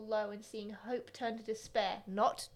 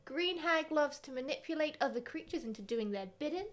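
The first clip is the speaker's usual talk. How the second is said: dramatic reading; 3 dB quieter than usual. Acted. Reading monster card aloud.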